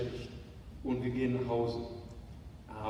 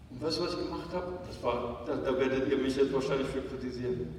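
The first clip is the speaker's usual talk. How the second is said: normal talking voice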